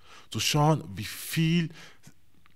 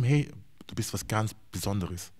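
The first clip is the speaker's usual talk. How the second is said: calm tender; 4 semitones lower, 4 dB quieter than usual. Retold or imitated. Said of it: "Ich red ruhig mit ihm".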